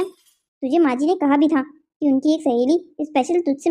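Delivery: slow, cross scolding of a younger sister; elder sister scolding slowly over the phone. Acted. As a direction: spell it out sharply to the careless sister. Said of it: "आप इतना गुस्सा क्यों हो रही हैं".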